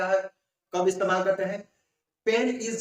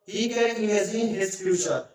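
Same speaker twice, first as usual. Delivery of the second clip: very slow, word by word; first slow read of "He can imagine his future"; slow dictation; much slower than usual. Shown as a demonstration. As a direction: lay each word out for the class. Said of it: "teacher dictates example sentence".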